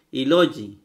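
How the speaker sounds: Y logi spoken as a single word; Y logi demonstrated to the class; model pronunciation. Shown as a demonstration. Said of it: "así se pronuncia".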